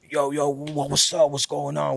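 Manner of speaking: light raspy rapper impression; a hint of a rasp, greeting a fan. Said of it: "with the raspy voice".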